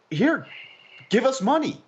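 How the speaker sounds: high-pitched mock begging; high, put-on plea for cash; mock company plea. Voicing companies asking for money.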